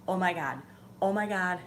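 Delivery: rising excited oh my God; overjoyed that it finally worked; excited relief. Retold or imitated. Window finally goes up.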